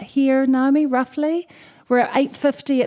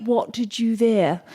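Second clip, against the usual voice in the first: lightly put-on British royal accent; mock aristocratic British accent; Duke of Edinburgh; slower than usual. Shown as a demonstration. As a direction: demonstrate a clipped-in British accent for others to copy. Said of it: "that's how the Duke of Edinburgh speaks".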